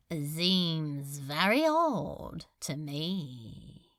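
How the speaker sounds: slow, lightly mock-thoughtful; feigned musing. Demon lord feigning puzzlement at Crowley, slow and mock-thoughtful. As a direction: drag it out as if pondering. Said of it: "feigning thought".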